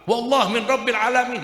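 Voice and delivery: loud high cry, far carrying; shouting. Acted. Father shouting to his son that it is from God, loud. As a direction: proclaim it with full force. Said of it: "dia teriak terus".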